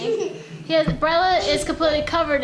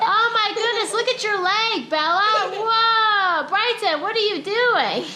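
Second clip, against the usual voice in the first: tag; 4 semitones higher, slower than usual. Real, not acted. Parent reacts to slime mess.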